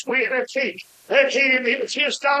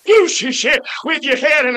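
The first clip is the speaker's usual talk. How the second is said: angry retort; 3 semitones higher than usual. Retold or imitated. Scared kid yelling back at the stranger, mock-angry. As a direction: imitate the kid's mad shout, slightly hammed up. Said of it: "turned around mad".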